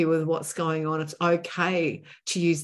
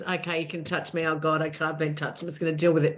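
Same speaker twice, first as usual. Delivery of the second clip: meek resignation; 2 semitones lower, faster than usual. Shown as a demonstration. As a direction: shrink and put up with it. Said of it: "behave the way we used to".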